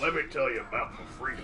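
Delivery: lightly voiced Southern accent, mocking boyfriend. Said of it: "with a thick Southern accent".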